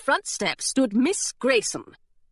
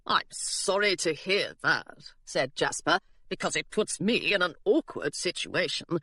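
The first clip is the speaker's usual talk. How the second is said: mock-grave pirate; 3 semitones lower, 4 dB quieter than usual. Jasper pretending regret to the governess, low and sly. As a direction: feign regret with a straight face.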